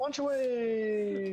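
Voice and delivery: slow, high, gleeful cry; excited. Real, not acted. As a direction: stretch it out with glee. Gleeful game call.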